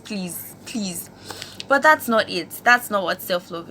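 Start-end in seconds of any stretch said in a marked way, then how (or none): 0.0-1.1 small, hushed retold plea; soft pleading. Girl begging God for a normal accent, soft pleading. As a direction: beg under your breath, mildly acted.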